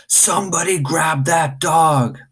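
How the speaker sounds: high, slow panicked shout; manager screaming. Acted. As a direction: yell for help at the staff. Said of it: "The manager screamed".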